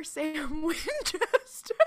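words breaking into laughter; can't hold the laugh in. Real, not acted. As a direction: crack up while saying the name. Cracks up at own joke.

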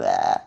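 gagging bleh of disgust. Real, not acted. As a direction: spit out a grossed-out bleh. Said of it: "It's just gross".

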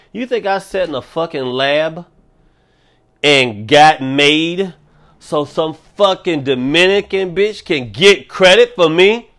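a lightly voiced outraged virus; coronavirus voice. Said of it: "I'm talking like coronavirus".

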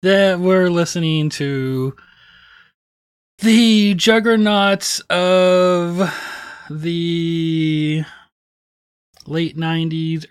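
drawn-out words held on level notes; mock-grand introduction. Co-host unveiling today's album, drawn-out mock-grand build. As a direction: stretch out the reveal with long pauses.

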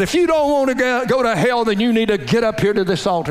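altar call. Retold or imitated. Pastor calling frightened kids to the altar, mock preacher urging. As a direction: press the kids to come forward. Visiting pastor voiced in story.

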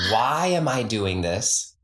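slow echo with "Why" leaned on; stress on WHY. Shown as a demonstration. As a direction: repeat it slowly, hitting "Why". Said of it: "emphasis on different words".

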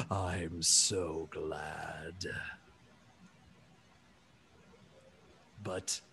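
low, very slow, soft giant; relieved elephant person. Acted. Elephant alien greets the one he found, softly relieved. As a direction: drop to a hushed, drawn-out gentle voice. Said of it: "suddenly is very excited and says".

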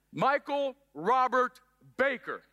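mock angry mother calling full name; scolding mom. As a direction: call out the whole name like a mom who's ticked off.

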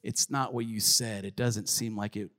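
low, soft confession to God; subdued doubt. Acted. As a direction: quietly admit it, voice sinking low. Voicing a doubting believer to God.

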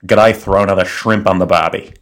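understated, calm Aussie delivery; unforced Australian accent at an everyday pitch. Shown as a demonstration. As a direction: demonstrate an Australian accent, calm and almost staccato. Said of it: "very calm, almost borderline staccato of the Australian accent".

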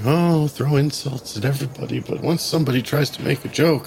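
sarcastic sing-song, rising to mock alarm; mock them with sarcastic sing-song; sarcastic mockery. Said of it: "faux hand waving in the air sarcastically".

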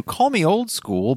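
high, slow, put-on old-timer voice; mock old-timer. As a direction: ham up being old school. Self-mocking aside.

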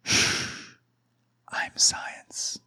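hushed, unvoiced mock shushing; mock whisper. Comic mocking Fauci shushing in a whisper. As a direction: whisper it like a smug expert hushing. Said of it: "Doctor Fauci just goes".

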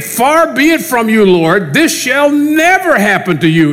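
upset protest. Retold or imitated. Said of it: "extremely frustrated and extremely upset".

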